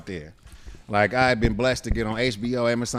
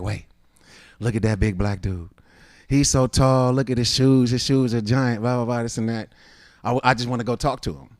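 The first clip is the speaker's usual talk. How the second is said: a hint of an excited Chilean girl, louder; 4 dB louder than usual. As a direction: lightly voice a girl gushing about the tall guy. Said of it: "I would do my voice as the girl".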